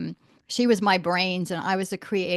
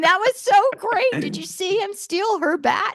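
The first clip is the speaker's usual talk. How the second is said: high, delighted parent gush, louder; 12 semitones higher, 4 dB louder than usual. Retold or imitated. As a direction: play a thrilled parent raving after the show. Parents gushing after school play.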